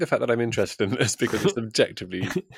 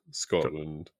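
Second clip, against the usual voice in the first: impersonating co-host; 5 semitones lower, 4 dB quieter than usual. Retold or imitated. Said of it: "I could just impersonate you".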